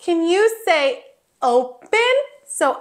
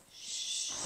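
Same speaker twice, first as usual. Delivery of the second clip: soft hush; 23 dB quieter than usual. Pretend. Pretend sleeper found on bed.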